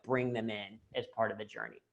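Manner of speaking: ordinary talk, nothing marked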